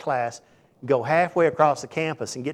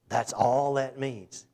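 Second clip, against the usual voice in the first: slowly; much slower than usual. Real, not acted. Slow emphatic close.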